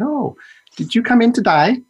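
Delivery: broad, high Australian nurse voice; Australian accent. Retold or imitated. Nurse greeting a patient in an Australian accent. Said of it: "That's my Australian accent".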